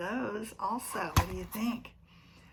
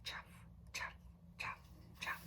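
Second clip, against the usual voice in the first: soft chuff; 12 dB quieter than usual. Retold or imitated. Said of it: "They make a soft sound on the dirt".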